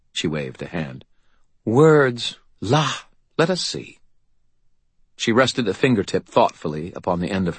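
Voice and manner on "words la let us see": high, slow, disdainful fey lady; fairy godmother voice. A narrator's reading. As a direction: look down your nose at him. Leah waves it off.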